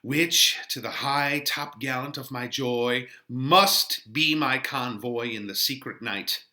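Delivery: lightly voiced young lover Romeo; Romeo reading. Teacher reading Romeo to the class, lightly acted. Reads Romeo's lines aloud.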